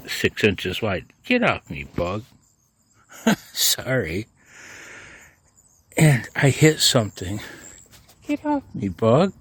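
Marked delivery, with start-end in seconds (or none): 1.2-2.2 outburst. Real, not acted. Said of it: "that juvenile outburst". 8.3-9.3 sudden high shriek at the bug; juvenile outburst. Real, not acted. Man mowing shrieks at a bug on him, high-pitched. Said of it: "that juvenile outburst".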